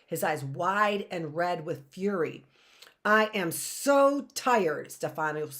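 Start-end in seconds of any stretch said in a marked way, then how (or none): 3.1-4.9 slow, louder menacing snarl. Acted. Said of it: "Stefano snarled".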